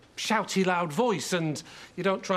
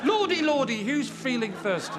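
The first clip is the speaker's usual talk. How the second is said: camp ad-lib; 7 semitones higher than usual. Acted. Actor ad-libs a servant line.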